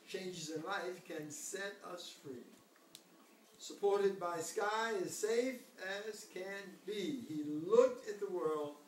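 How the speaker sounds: gentle storybook reading; reading to a toddler. A narrator's reading. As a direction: read it like a bedtime story. Reads the picture book aloud.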